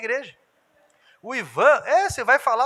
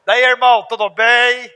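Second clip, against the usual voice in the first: hearty mock greeting; 9 dB louder than usual. Greeting voiced loudly.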